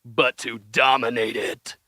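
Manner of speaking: reading a Trump speech in a put-on presidential accent; hammed-up Trump impression, grand and earnest; mock Trump accent. Reading Trump's space speech to the guys, in mock Trump accent. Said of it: "Did he say it in that accent?".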